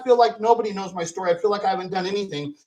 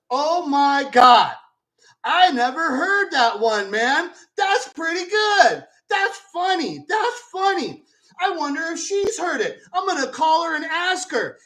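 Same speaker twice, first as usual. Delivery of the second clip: higher, slow, delighted; amused disbelief; 5 semitones higher than usual. Retold or imitated. A singer amused by the reporter's rumor, higher and slower. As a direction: play it like a tickled old star. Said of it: "He's still laughing".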